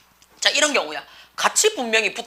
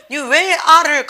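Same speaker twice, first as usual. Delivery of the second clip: mock scolding; 4 semitones higher, 4 dB louder, slower than usual. Mother calls child over to scold.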